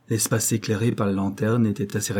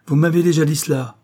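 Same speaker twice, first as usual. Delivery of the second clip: high, loud, cutting in with disbelief; incredulous interruption; 7 semitones higher, 6 dB louder than usual. A narrator's reading. Norbert cutting off his rival's oath, incredulous and loud. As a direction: brush the oath aside, not believing a word. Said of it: "d'un ton qui annonçait la plus parfaite incrédulité".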